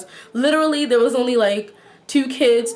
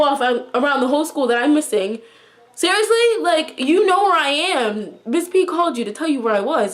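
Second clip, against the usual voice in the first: retold yelling; 3 semitones higher than usual. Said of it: "when I was yelling at her".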